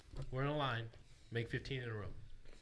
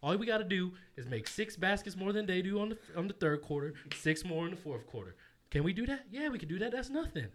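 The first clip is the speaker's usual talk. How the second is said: halftime pep talk; 3 semitones higher than usual. Shown as a demonstration. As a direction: pump the team up from twenty-four down. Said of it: "I wanna hear a little bit about your halftime".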